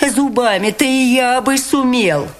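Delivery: fist-fighter snarling in despair; grating. A narrator's reading. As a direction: scrape it out through desperation. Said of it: "проскрежетал".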